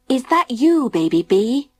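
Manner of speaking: calling down the stairs. A narrator's reading. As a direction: call out into the dark. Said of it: "he called down the stairs".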